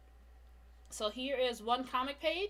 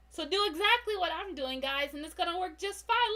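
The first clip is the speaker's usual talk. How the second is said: louder, upbeat boast to the audience; mock-confident instruction; 5 semitones higher, 7 dB louder than usual. Real, not acted. Streamer telling viewers to copy her, mock confident. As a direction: sell it like a proud teacher.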